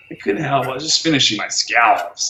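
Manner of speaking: imitating the man's American scallops; the stranger's American accent. Mocking the cafe man's American accent, lightly. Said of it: "The way he said it is like".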